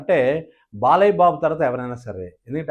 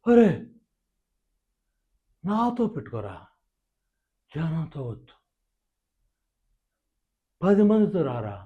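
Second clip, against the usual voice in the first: much softer, slow, cool underplayed threat; Nagarjuna impression; 5 dB quieter than usual. Mimic doing Nagarjuna's version, much softer and cool. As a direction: say it coolly under the breath. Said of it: "Nagarjuna గారు చెప్పాలనుకోండి".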